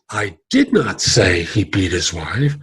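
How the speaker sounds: "did" pushed, slowed; stress on DID. Shown as a demonstration. Trainer stressing "did" to change meaning. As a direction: hit "did" and rise at the end. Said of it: "and versus".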